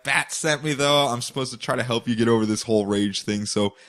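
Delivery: casual bro tone, slowish; Red Hood. Retold or imitated. Red Hood lecturing Batgirl, lightly voiced bro. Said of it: "Red Hood is standing going".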